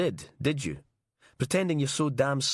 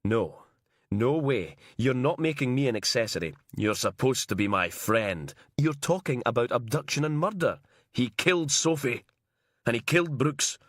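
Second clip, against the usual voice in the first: rising alarm; 4 semitones higher than usual. Acted. Logan refuses, pleading with Inch.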